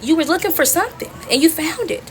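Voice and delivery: retold smart-mouthed comeback; irritated. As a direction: throw it back with irritated attitude. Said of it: "So now I'm irritated".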